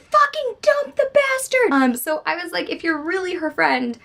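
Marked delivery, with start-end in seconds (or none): 0.0-1.7 much higher, louder, slow fierce yell; blunt yell. Retold or imitated. Telling a friend to leave a bad boyfriend, fierce yell. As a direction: yell it like the fed-up best friend. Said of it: "I'm the friend who's like".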